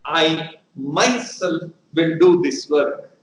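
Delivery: slow, "myself" stressed; emphatic myself. Shown as a demonstration. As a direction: stress that I alone will do it, slowly. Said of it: "I want to lay stress that I alone will do that".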